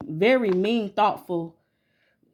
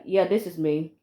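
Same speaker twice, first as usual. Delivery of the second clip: adult voice. Retold or imitated. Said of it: "in my adult voice".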